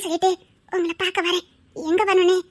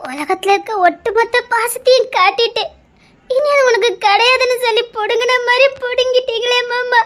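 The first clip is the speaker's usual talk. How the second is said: anguished sobbing. Acted. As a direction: break down as you plead. Crying, despairing.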